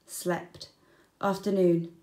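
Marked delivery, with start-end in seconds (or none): 0.1-0.7 whispered, drowsy slept; sleepy whisper. A narrator's reading. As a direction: breathe it out like dozing off. Sleepy wombat diary entry.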